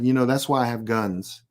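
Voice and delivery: low, level-headed warning; dead serious. Retold or imitated. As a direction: deliver the threat in dead earnest, understated. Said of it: "I usually look at 'em dead serious".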